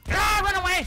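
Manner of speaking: a high, loud panicked shout; panicked yell. Real, not acted. Player getting shot tells the team to run, panicked high yell. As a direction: yell to flee as bullets hit. Under fire in the game.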